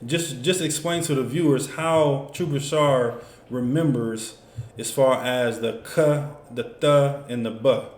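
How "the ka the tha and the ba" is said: ka, tha, ba set apart as short separate sounds; teacher listing ka, tha, ba one at a time; syllable by syllable. Shown as a demonstration. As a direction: sound out ka, then tha, then ba, slowly. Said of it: "So we got three syllables".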